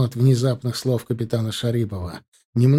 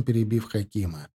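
ordinary delivery

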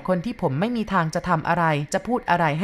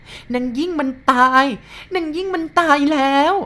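crying repeating; 9 semitones higher, 5 dB louder than usual. Acted. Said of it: "ผู้หญิงคนนั้นพูดซ้ำๆ แล้วก็ร้องไห้ไปด้วย". (ร้องไห้คร่ำครวญเสียงสูง)

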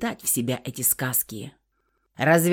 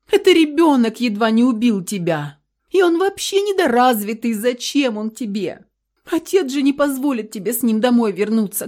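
high, loud urgent pressing; frantic pleading; 5 semitones higher, 4 dB louder than usual. A narrator's reading. Mother pressures her daughter to sign, frantic. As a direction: push her hard, voice climbing.

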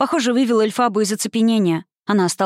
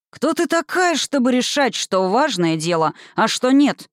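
roaring; 5 semitones higher, slower than usual. Acted. The wizard roars at Elphaba, angry booming challenge. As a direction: thunder it down at the girl. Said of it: "взревел волшебник".

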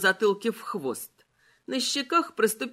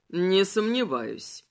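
skeleton voice; 3 semitones lower, slower than usual. Acted. Malachi's dry reply.

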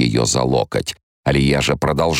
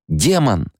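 outburst; 8 semitones higher than usual. Acted. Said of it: "не выдержала Кханима".

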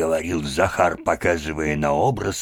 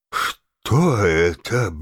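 dazed; 3 semitones higher, much slower than usual. A narrator's reading. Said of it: "Бледный, задыхаясь, говорил он".

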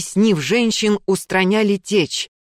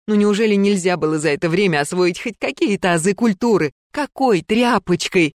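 raised, indignant scolding; scolding museum keeper; 4 semitones higher than usual. Acted. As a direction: scold her like a careless child. Berta scolding Gulya.

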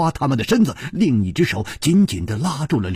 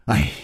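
sigh; 9 semitones lower than usual. Acted. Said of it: "忍不住叹了一口气".

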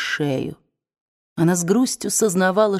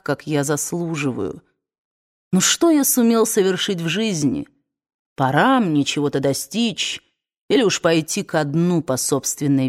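proud weary man. Acted. Ashley confessing his pride.

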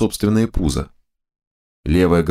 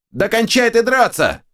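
two bickering giant voices. A narrator's reading. Heads fight.

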